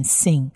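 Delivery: "Sin" begun with a plain s, not sh; S sound in Sin. Shown as a demonstration. Teacher contrasting dot positions for learners, "Sin" pronounced with s. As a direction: say "Sin" with a clear s onset. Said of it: "它的黑点在左上方".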